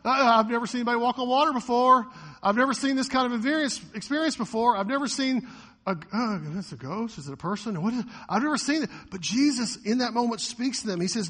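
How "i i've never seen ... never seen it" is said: fast, higher, louder flustered babble; mock bewildered panic. Preacher acting his own reaction, fast flustered mock panic. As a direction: stammer like you just saw a ghost. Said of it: "react with me kind of how I".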